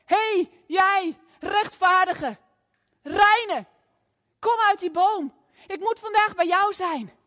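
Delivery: slow, drawn-out call up into the tree. Retold or imitated. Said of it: "En hij spreekt hem aan en zegt". (luid en langzaam roepen naar boven)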